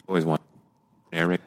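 choppy call audio dropping words; cutting out. Real, not acted. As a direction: voice breaking up over a bad connection. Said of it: "now you're cutting out".

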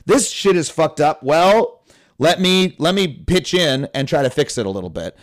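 a grudging shrug, ready to help; resigned pitching in. Retold or imitated. Older person deciding to help fix things, resigned and practical. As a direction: sigh it off and roll up your sleeves. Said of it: "eventually you're like".

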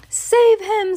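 high, loud cry for rescue; screamed plea. A narrator's reading. Mother screams for someone to save her son, panicked cry. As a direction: cry out in panic, pitch leaping up. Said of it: "screamed Missus Gloop".

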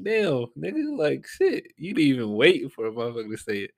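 exasperated outburst. Retold or imitated. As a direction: blurt it out, stunned he beat you to it. Retelling exasperation at brother's joke.

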